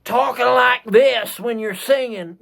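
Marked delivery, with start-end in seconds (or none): 0.0-1.4 talking in a hammed-up drawling accent; exaggerated accent drawl. Shown as a demonstration. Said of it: "You don't need to be sitting here".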